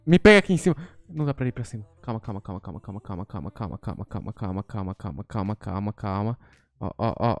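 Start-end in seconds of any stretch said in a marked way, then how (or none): 2.0-7.4 low, soft repeated murmur; hushed. Real, not acted. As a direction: hush yourself while hiding. Hiding from monster, calming himself.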